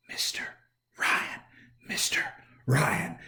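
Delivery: building from soft to full voice. Shown as a demonstration. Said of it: "starting quietly and getting louder".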